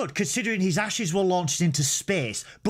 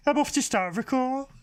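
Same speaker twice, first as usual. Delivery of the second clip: Birmingham Klingon; 7 semitones higher than usual. Pretend. Co-host showing off a Birmingham Klingon, mock Brummie accent. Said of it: "I wanna do a Birmingham Klingon".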